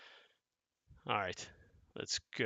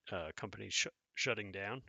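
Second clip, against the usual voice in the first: talking through hiccups; speech caught by a hiccup. Real, not acted. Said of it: "I got the hiccups".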